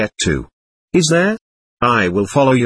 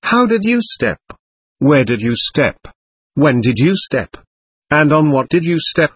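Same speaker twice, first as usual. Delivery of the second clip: mock interrogator; 3 semitones higher than usual. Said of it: "you could puzzle God himself with such questions".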